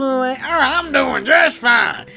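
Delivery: put-on slurring happy drunk; lightly voiced rowdy drunk; drunk guy voice. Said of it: "I'm a little drunk".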